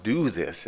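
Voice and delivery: "do" lifted and stressed, then falling. Shown as a demonstration. Preacher repeating Jesus' command, stress on "do". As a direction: make "do" the peak of the phrase. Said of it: "all the emphasis on the word do".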